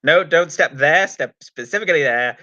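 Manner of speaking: a hint of a character impression; Sylvester McCoy. Podcaster doing the Doctor talking to Ace, light impersonation. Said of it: "than I do Sylvester McCoy".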